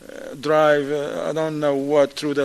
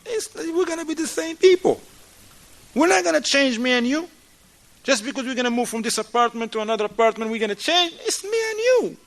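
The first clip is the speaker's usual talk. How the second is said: higher pleading voice urging change; pleading spouse; 5 semitones higher than usual. Acted. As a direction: plead with your partner to change together. Spouse voiced realizing shared fault.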